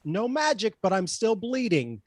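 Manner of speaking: pointed, theatrical in-character complaint; drama queen. Acted. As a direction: make a bit of a show of it. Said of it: "Holy drama queen, Batman".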